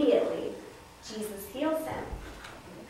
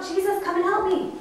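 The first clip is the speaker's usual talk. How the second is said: high, raised demonstration shout; 8 semitones higher, 4 dB louder than usual. Shown as a demonstration. Teacher showing Claire what to cry, shouting out. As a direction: show how to call for help. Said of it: "can you shout out".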